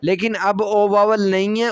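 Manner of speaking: ordinary delivery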